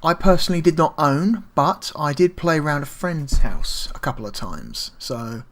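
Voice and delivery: talking while chewing gum. Real, not acted. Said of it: "let me get rid of my gum".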